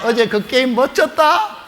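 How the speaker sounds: hint of a kid raving about a game; lightly acted excited schoolboy. Boy to classmate about yesterday's game, mild mock excitement.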